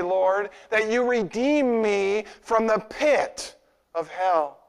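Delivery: slow, humble plea; humbly. Acted. Psalmist humbly thanking the Lord, slow and humble. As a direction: pray it slowly and humbly, as a grateful psalmist. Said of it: "very humbly".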